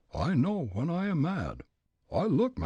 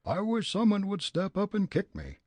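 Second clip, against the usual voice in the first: put-on furious old man; 7 semitones higher than usual. Old gent declaring himself mad to Fritz, blustering. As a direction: rage like a riled Leadville miner.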